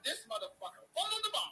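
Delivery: high, loud, laughing through the curse; laughing disbelief. Retold or imitated. Fan retelling the fumble, laughing outrage. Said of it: "I was like".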